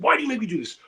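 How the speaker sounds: lightly voiced put-upon bouncer; mock exasperated bouncer. Bouncer to the man he is shaking, mock exasperated.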